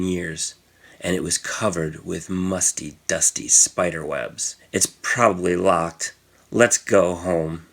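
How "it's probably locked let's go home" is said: put-on hesitant boy. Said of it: "said Tommy".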